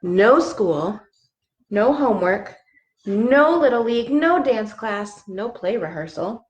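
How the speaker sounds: lively storybook read-aloud; reading to children. Acted. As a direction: read it like a bedtime book. Reads picture book aloud.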